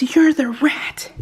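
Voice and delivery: high, drawn-out accusing voice; slow, exaggerated accusation; mock accusation. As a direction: play the daughter exposing the culprit. Daughter's accusation, retold again.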